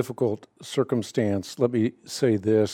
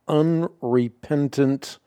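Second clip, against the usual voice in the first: unrepentant set apart with deliberate emphasis; emphatic, drawn-out "unrepentant"; stress on unrepentant; 2 semitones higher, slower than usual. Real, not acted. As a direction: lean hard on the word unrepentant. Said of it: "I emphasize the word unrepentant".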